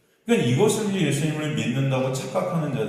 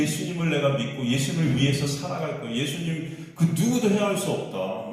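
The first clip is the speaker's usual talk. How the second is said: retold vow, pitched a little higher; emphatic vow; 4 semitones higher than usual. Peter pledging loyalty to Jesus, emphatic. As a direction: stress each phrase of an acted pledge. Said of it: "막 그렇게 강조를 했지만".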